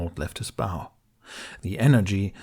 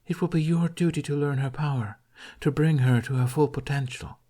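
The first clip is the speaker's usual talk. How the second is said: a lightly voiced distant deity, slightly higher; remembered god's voice; 5 semitones higher than usual. Deity instructing Hiccup about the bow, lightly voiced command. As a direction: echo the god's command from memory.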